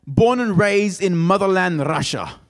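put-on Russian accent. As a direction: play up a mock Russian accent. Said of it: "decided to do that accent".

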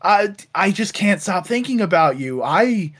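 slow, hammed-up flirty come-on; drawn-out fake sweet talk; mock seductive. Spider-Man sweet-talking the rat lady, slow and mock seductive. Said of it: "goes like".

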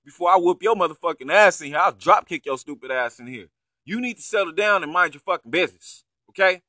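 hammed-up telling-off; retold angry threat. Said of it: "He told the woman".

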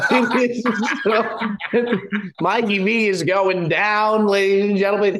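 loud, boomy far-off mic sound; talking through a bad headset mic, loud; in a tunnel. Real, not acted. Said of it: "Bob, you sound like you're in a tunnel right now".

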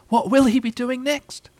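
high, slow, marvelling mother voice; high, indulgent wondering; motherly mock wonder. A narrator's reading. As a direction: marvel at a child's cleverness, drawn out. Kanga feigns admiring wonder.

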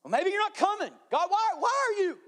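high, strained plea to God; doubting plea. Acted. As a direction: let the voice climb with worry. Joshua's doubting plea voiced.

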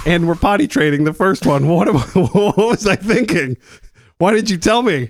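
laughing, high, whispered half-joke panic; mock panic. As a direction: fake alarm through laughter. Joking panic over second child.

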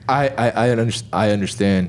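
low seductive voice; deep bedroom voice. Pretend. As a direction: drop the voice low and sultry. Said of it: "why is your voice so deep".

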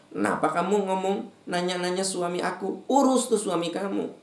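high irritated comeback; annoyed retort. Acted. Mock-annoyed wife answering a nosy neighbour, pitched high. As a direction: snap back like an annoyed wife. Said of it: "Kalau kitanya kesel".

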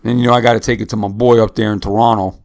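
put-on light playful Canadian accent. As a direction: slip in a quick Canadian accent. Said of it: "That's my little Canadian accent".

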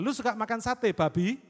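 "Lu suka makan sate babi?" snapped with a sharp rise; rude tone. Shown as a demonstration. Preacher shows how a rude intonation on "Lu suka makan sate babi?" angers people. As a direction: throw the question out rudely, like a provocation. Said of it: "Marah, saudara".

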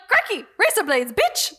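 high mock Australian accent. Chloe on the phone to John's office, high mock Australian accent. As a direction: ham up an Aussie twang. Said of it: "And she was like".

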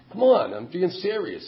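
loud slow earnest protest to the sponsor; insistent. Retold or imitated. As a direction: insist you mean it, raising your voice. Retold plea to sponsor.

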